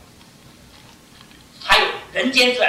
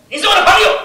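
raised, earnest voice of God; God's voice; 11 semitones higher, 9 dB louder than usual. Acted. Preacher voicing God to his friend, lifted and earnest. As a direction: proclaim it high as God speaking to a friend.

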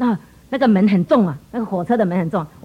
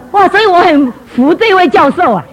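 louder, slow admiring 哇 drawn out; emphatic admiration; 6 semitones higher, 5 dB louder than usual. Shown as a demonstration. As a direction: really savour 哇 and lean on every word. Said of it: "repeated line, emphatic take".

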